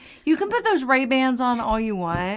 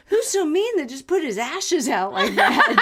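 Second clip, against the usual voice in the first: laughing quote; 4 semitones higher than usual. Retold or imitated. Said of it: "someone was like".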